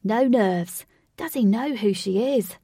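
loud, amazed exclamation; surprised. Acted. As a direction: blurt it out in disbelief. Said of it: "Lynx was surprised and said".

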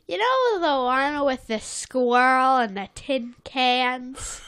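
a hint of a put-on cartoon voice; lightly acted character question; lightly voiced SpongeBob. SpongeBob coming over to ask Sandy, lightly voiced. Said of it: "SpongeBob comes over and says".

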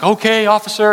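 comply eagerly to the officer; eager citizen. Pretend. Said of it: "And the citizen's like".

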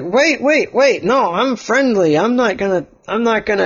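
high, rushed frightened begging; panicked pleading. Acted. Oliver begging the sword-swinging player, high panicked plea. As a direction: plead for your life.

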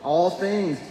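lifted, solemn reading voice; scripture reading. Acted. Pastor reading Matthew to the congregation, solemn.

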